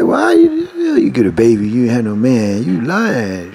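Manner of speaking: a hint of an angry husband; mock accusation.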